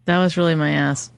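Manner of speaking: Southern accent. Shown as a demonstration. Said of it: "you start talking Southern".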